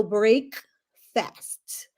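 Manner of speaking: "break fast" as two full words with a pause; BREAK-FAST split up. Retold or imitated. Teacher spelling out her word, split BREAK... FAST. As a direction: pull "break" and "fast" apart, brake... fast. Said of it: "some of the words that we pronounce will be different".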